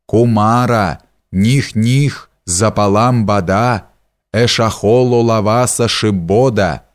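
restrained ritual howl with drawn-out vowels; sorcerer's chant, half wailed; howled incantation. A narrator's reading. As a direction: intone the spell, stretching the vowels into a mild wail. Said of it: "выть диким голосом свои заклинания".

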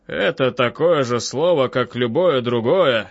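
slow, measured doctor's voice; unruffled, drawn-out reply; composed doctor Freud. Acted. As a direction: answer slowly and deliberately, as an analyst.

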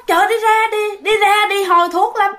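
giọng cao, đóng lời cô gái xua người ta đi; kể lại lời xua đuổi. Retold or imitated. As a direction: xua đi, lên giọng mà không cần to. (giọng xua đuổi, lên cao)

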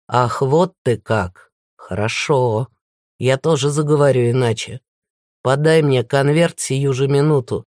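a villain dropping the politeness; menacing villain. Acted.

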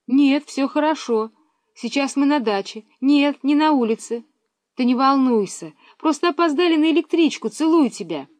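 a schoolgirl calling home, eager; girl on the phone. A narrator's reading. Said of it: "Миронова on phone to mother".

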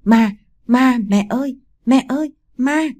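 terrified scream. A narrator's reading. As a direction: call out for mother in fright. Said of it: "mà hét lên".

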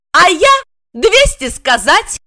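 high, slow cheeky comeback; hands-on-hips retort. A narrator's reading. Wife cheekily retorting to the boasting blonde. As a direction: taunt her back.

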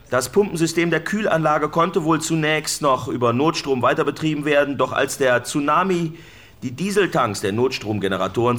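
calling the report out across the rooftop. Real, not acted. Rooftop correspondent raising his voice to the studio, loud. Reporter on roof, louder throughout.

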